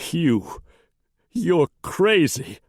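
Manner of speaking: high, halting disbelief; frightened, high-voiced accusation; panicked protest. A narrator's reading. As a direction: stammer it out, slow and aghast. Wounded man protests to his attacker.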